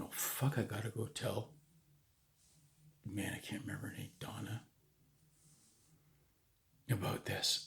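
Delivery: hushed, sinking retold dismay; crushed. Recalling having to tell a friend's girlfriend, crushed. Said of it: "I'm just, like, crushed".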